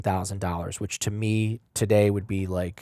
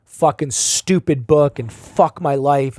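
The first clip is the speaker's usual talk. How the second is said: retold frustration; 5 semitones higher, 8 dB louder, slower than usual. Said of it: "I'm just like".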